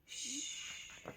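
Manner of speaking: soft unvoiced hush; whispered shush. Hushing the listeners.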